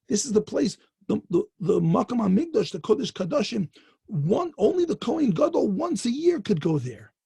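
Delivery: voicing mild outrage in retelling; retold anguished protest.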